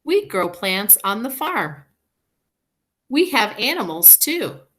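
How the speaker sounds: teacher reading a story to a class; reading to children. Acted. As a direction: read it bright for young listeners. Reading a picture book aloud.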